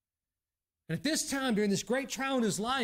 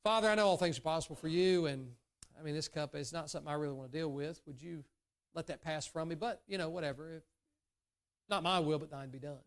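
quick, offhand prayer, trailing much softer; casual mumbled prayer that fades away; nonchalant prayer; 5 semitones lower, 4 dB quieter, faster than usual. Retold or imitated. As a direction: toss it off like a careless shrug. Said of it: "nonchalant-like".

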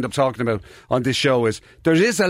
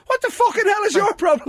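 angry retort. Acted. Lad in headphones snapping back at housemate, angry. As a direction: fire it back, fed up.

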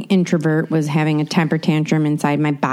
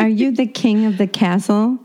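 talking to a dog; 4 semitones higher than usual. Real, not acted. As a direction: coo at the dog playfully.

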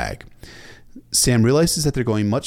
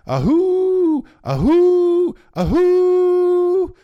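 loud, high, sustained hooting; imitated war horn blasts; 10 dB louder, much slower than usual. A narrator's reading. War horns calling the men back, loud imitated blasts. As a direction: hoot long like a battle horn. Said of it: "The war horns called them back".

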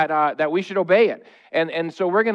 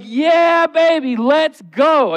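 higher, louder excited shout; joyful cheer; 8 semitones higher, 4 dB louder, much slower than usual. Shown as a demonstration. Pastor showing the congregation a joyful noise, excited cheer. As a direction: cheer like your team just scored. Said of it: "A joyful noise sounds like".

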